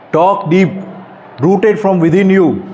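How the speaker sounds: slow, weighty poem reading; poem recital. Acted. Speaker reciting his own poem to teenagers, slow and solemn. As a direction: recite each word slowly like a call to wake up.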